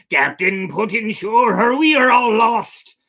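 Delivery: loud, high desperate crew cry; terrified sailors shouting to their captain; panicked crew. Acted. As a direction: shout it over the storm. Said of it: "everyone said to the captain".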